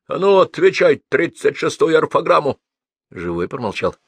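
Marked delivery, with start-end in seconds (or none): 0.1-2.6 loud, raised schoolmaster's command; stern demand. A narrator's reading. Teacher demanding a spelling rule from pupil, stern. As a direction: demand the answer sharply and loudly.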